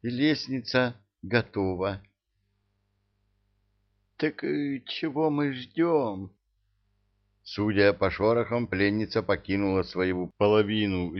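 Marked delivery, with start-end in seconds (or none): none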